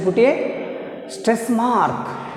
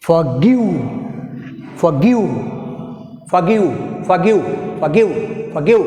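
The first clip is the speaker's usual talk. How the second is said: "forgive" with a forceful GIVE; for-GIVE, "forgive" as a repeated stress drill; stress on second syllable; much slower than usual. Shown as a demonstration. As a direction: hit GIVE in each "forgive". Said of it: "pronounced more forceful".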